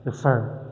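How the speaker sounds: Refer stressed on the last syllable, re-FER; short Re, longer fer in Refer. Shown as a demonstration. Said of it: "My stress is on fer".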